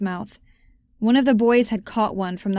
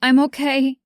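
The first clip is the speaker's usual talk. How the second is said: breathless, a bit higher; panted reassurance; 5 semitones higher, 4 dB louder than usual. A narrator's reading. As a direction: gasp it out reassuringly. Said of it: "I panted".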